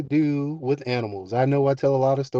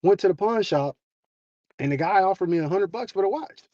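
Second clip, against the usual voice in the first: higher-pitched, excited report to Dad; excited daughter; 4 semitones higher than usual. Retold or imitated. Daughter telling her dad about the pawn shop offer, excited. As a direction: imitate an excited girl sharing news, pitched up. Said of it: "and she's excited".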